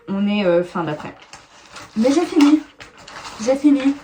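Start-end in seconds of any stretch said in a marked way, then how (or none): 2.0-4.0 excited. Real, not acted. Relieved to have finally finished.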